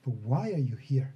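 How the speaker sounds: sharp opening question, then a lightly voiced grandmotherly tone; questioning old woman. Old woman questioning the visitors in her cart. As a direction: probe them like a wise old matriarch.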